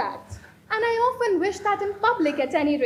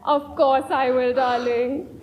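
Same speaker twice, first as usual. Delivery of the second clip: quick, keen yes, lower and a bit louder; eager acceptance; 5 semitones lower, 5 dB louder, slower than usual. Acted. Gwendolyn accepting Ernest's proposal, eager and keen. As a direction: snap up the proposal at once.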